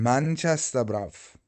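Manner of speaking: mock Manchester accent; British accent. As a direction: put on a Mancunian accent. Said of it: "Is that a good accent?".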